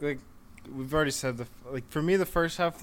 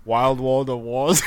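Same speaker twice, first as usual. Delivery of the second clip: put-on Austrian accent; 4 dB louder, slower than usual. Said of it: "say that one more time in your Austrian accent".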